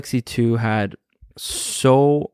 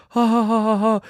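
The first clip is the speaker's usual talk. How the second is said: high mock belly laugh; imitated guffaw; 11 semitones higher than usual. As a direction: act out someone roaring with laughter. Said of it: "laughing. He's just like".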